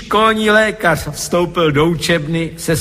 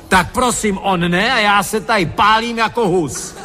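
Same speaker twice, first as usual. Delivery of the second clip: narrated roar; 6 semitones higher than usual. A narrator's reading. Janitor with a burning briquette on his head, mock roaring. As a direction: protest in a raised, hammed-up yelp. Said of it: "řval".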